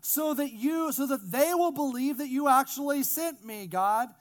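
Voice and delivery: loud, high projected praying; boisterous prayer. Acted. Jesus praying aloud before the bystanders, boisterous prayer. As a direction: pray loudly for the onlookers to hear. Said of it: "kind of a boisterous prayer".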